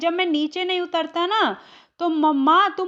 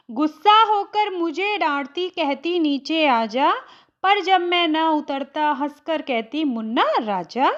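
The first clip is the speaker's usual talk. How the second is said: poem recitation. Acted. Hindi teacher reads the poem to students, recited. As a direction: recite the stanza line by line, steady.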